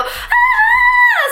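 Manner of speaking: long high-pitched scream; mock scream. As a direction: re-enact a drawn-out scream while running. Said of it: "I'm screaming. I go".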